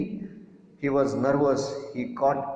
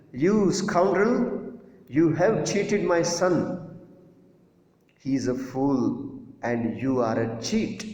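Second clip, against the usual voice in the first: angry shout; 3 semitones higher, slower than usual. Retold or imitated. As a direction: shout down the cheating shopkeeper. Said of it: "he went and shouted at him".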